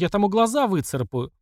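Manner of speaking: understated indignant shout; mild narrated cry. A narrator's reading. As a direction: lightly act a girl's fierce outcry. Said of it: "кричала Даша".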